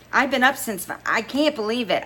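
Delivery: high and loud; excited. A narrator's reading. Girlfriend tells of the call, excited. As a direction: gush with disbelief. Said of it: "I screamed into the phone".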